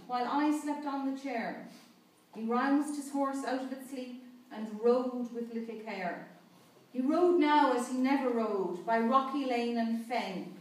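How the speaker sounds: measured, solemn reading of a ballad; poem recitation. Acted. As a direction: recite the ballad slowly, with feeling.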